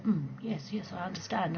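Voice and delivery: a hint of a quiet, absent murmur; bored bloke. Mimicking a bloke who just goes along, mild murmur. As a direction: mumble politely, not listening. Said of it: "he's like".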